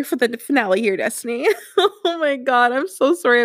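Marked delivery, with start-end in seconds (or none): 1.6-3.4 teary laugh. Real, not acted. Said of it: "I've just been a blubbering mess".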